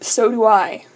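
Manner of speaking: flat, expressionless delivery. Michael, dabbing alcohol on Dean's cuts, answers him deadpan.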